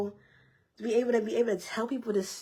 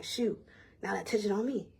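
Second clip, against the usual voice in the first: whispered aside; 6 dB quieter than usual. Retold or imitated. Embarrassed at the altar.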